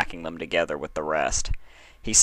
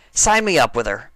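high, brash tomboy voice, louder; cocky and dismissive, pitched up high; Rainbow Dash voice; 5 semitones higher, 6 dB louder than usual. A narrator's reading. Dash brushing off the registrar, cocky high voice.

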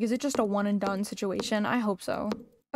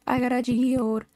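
louder, drawn-out demanding call; insistent shout; 3 semitones higher, 5 dB louder than usual. Pretend. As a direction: call it out slowly and loudly to get let in. Repeats it, demanding to be let in.

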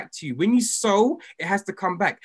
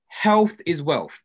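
each word slow and deliberate; slow, spelled-out dictation; slower than usual. Shown as a demonstration. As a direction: dictate it for the chat, slowly. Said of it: "Put that in capital letters".

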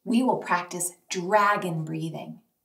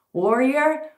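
called out; 3 semitones higher, 4 dB louder than usual. Shown as a demonstration. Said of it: "When I say warrior".

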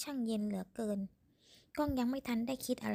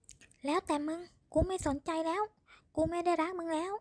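angry rejection; 7 semitones higher than usual. A narrator's reading. Man rejecting woman in fight.

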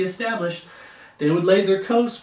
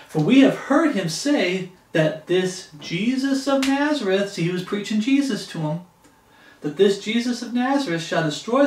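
scripture reading; 2 semitones higher than usual. Acted. Reads scripture aloud.

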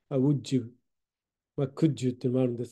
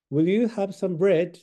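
slow friendly offer; 3 semitones higher, much slower than usual. Shown as a demonstration. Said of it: "おすすめですね".

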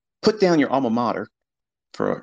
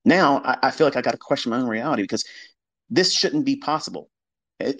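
mock rattled trader; 3 semitones higher than usual. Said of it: "the first thing that they reach for is".

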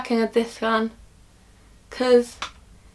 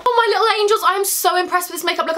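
gushing; 5 semitones higher than usual. Real, not acted. Gushing to viewers.

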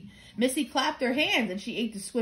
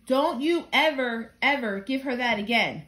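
stern scolding. Acted. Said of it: "I'm sorry I got angry with you".

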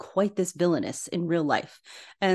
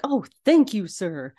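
grateful clerk; 2 semitones higher, 4 dB louder than usual. Retold or imitated. Grateful clerk voiced in retelling.

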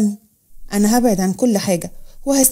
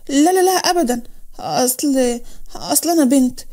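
nervous denial. Acted. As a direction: deny it with mild alarm. Nervous denial to suspicious officer.

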